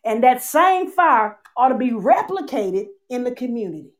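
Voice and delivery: impassioned preacher voice; preaching. Acted. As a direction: preach it with rising fervor. Preaching a sermon.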